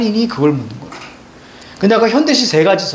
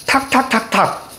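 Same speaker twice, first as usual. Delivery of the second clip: "탁탁탁탁" as four separate, higher-pitched taps; light staccato beats; 4 semitones higher, 3 dB quieter, slower than usual. Shown as a demonstration. Teacher showing students how to read a poem, light staccato beats. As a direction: tap out "탁탁탁탁" slowly, one beat at a time. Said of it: "시 어떻게 읽는다고요".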